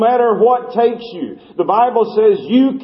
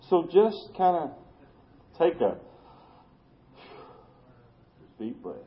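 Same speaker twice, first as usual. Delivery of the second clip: much softer, trailing down to near silence; soft invitation to breathe; 9 dB quieter than usual. Shown as a demonstration. Preacher inviting the congregation to breathe, softly. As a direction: gently coax them to take a breath. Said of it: "preacher guiding congregation to breathe".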